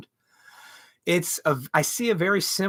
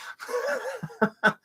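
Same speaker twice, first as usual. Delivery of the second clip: high burst of laughter; 3 dB quieter than usual. Real, not acted. Laugh after insulting the lady.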